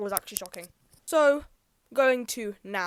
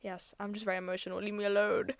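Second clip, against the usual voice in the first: softer, sarcastic grumble; mock sulky reply; 7 dB quieter than usual. Answering mum at the doctor's, sulky and soft. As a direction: mutter it like a huffy teen. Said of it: "I was like".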